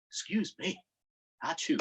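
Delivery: mock sneeze. Shown as a demonstration. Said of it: "So you see what I did?".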